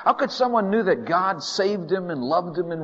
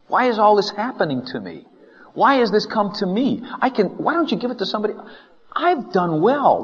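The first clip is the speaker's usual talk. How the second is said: high-pitched, pleading complaint to God; acted indignant appeal; aggrieved protest; 7 semitones higher, 3 dB louder than usual. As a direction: protest your unfair treatment, voice raised. Acts Job's complaint to God.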